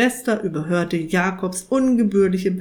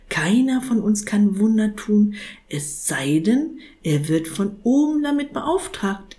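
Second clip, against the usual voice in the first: kindly saint; 2 semitones higher than usual. Acted. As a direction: explain it like to a child. Saint explains bureaucracy.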